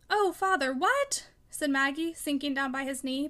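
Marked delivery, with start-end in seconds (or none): 0.1-1.3 high, alarmed cry, leaping up at the end; trembling dismay. A narrator's reading. Daughter sinking by her father's knee, trembling dismay. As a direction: plead in rising alarm. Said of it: "pale and trembling".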